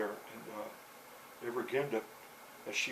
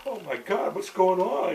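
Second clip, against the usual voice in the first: higher, louder alarmed cry; a frightened father running; loud panicked oh my God; 7 semitones higher, 10 dB louder than usual. Retold or imitated. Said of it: "you know".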